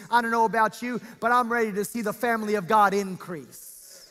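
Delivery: emphatic sermon voice, projected; preaching. Real, not acted. Preacher explains God's promised increase, preaching. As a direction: preach it to a full room.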